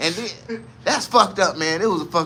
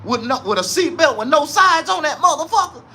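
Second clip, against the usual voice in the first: excited disbelief; 9 semitones higher, 3 dB louder than usual. Real, not acted. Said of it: "I'm scared as hell".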